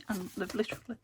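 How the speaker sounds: hiccuping mid-sentence; hiccups. Real, not acted. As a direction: talk through a hiccup. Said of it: "I'm hiccuping again".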